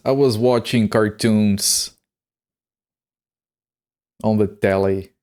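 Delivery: slow, silly British accent on "I was watching cartoons"; mock British accent, deliberately dumb; British idiot impression. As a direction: drawl "on the telly" like a goofy Brit. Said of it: "That's my one British idiot impression".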